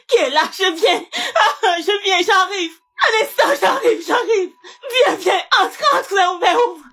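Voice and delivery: hammed-up distress, laughing through the pleas; fake panic. Mother greeting Pascal at the door, fake tearful panic. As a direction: overplay the desperate mother, barely holding in laughter.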